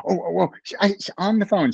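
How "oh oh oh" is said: high, eager imitated "oh"s; excited nutritionist. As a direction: mimic her bursting with an idea. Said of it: "she was so excited".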